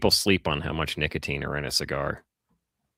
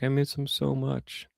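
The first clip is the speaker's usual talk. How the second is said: high, whiny-style imitation of longing; mock pining; 8 semitones higher than usual. Imitating ex-smokers who long for cigarettes, high mock pining. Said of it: "everybody I talk to ... is like".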